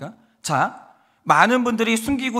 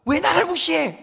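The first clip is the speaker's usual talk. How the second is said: higher, a sudden indignant snap; mock outburst; 8 semitones higher than usual. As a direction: flare up as if insulted. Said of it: "화를 버럭 냈어요".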